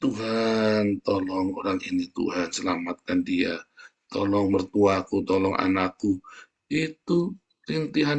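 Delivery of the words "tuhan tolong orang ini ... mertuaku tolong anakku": moaning prayer. Pretend. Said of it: "kamu merintih".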